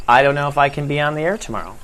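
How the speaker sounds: quick worried rush; anxious inner worry. Shown as a demonstration. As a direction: spill the worry fast and fretful. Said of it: "the whole conversation inside your head".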